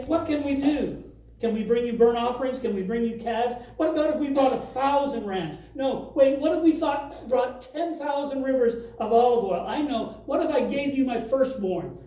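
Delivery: sarcastic offers, each topping the last; a hammed-up sarcastic plea. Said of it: "So they're being sarcastic".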